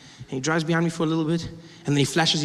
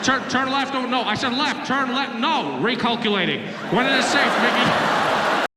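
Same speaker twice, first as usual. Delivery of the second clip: irritated navigation voice, mostly higher; angry cop on Waze; 5 semitones higher, slower than usual. Retold or imitated. Cop correcting driver's wrong turn, mock angry GPS. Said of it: "angry cop on my Waze".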